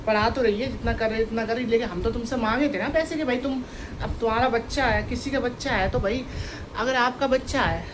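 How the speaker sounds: loud, frustrated complaint; heated venting. Real, not acted. Aunt loudly complaining about her sister's family. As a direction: let the anger out, loudly.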